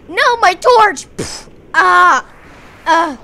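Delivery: high, loud cry of alarm; dismayed shriek. Acted. Jeremy losing his torch to a drowned, alarmed high cry. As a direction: yelp as the torch is knocked away.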